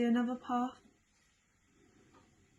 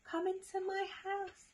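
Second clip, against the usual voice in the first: high-pitched storybook snake; high, playful snake invitation; snake character; 9 semitones higher than usual. Acted. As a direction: lure them in with a raised snake voice.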